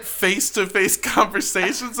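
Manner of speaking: "face-to-face conversations" said through a laugh. Shown as a demonstration. Host rereads the quote to co-hosts, laughing. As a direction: giggle as you say "face-to-face conversations". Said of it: "But they put".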